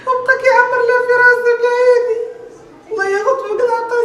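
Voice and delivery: crying through words; despairing sob-talk; tearful. Acted. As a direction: choke up. Woman crying in distress.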